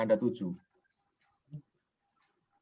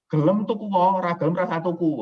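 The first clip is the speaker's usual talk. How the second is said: defiant; 4 semitones higher, 5 dB louder than usual. Acted. Defiant seller's stance in Javanese.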